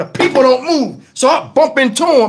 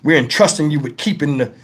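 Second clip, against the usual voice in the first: low, solemn boss giving orders; mock boss orders; 5 semitones lower than usual. Imagined bosses instructing the flag guy, low mock solemn. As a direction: hand him the job with fake gravity. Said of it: "they must have told him".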